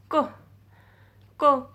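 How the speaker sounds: KO said as a short 'ko', P silent; pronunciation demo. Shown as a demonstration. Teacher showing students the silent P, careful pronunciation demo. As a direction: say ko with no P sound at all. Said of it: "I am pronouncing this word is ko".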